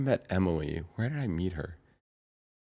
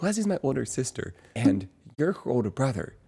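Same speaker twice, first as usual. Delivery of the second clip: bouncy imitation; 5 semitones higher than usual. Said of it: "how did she say it".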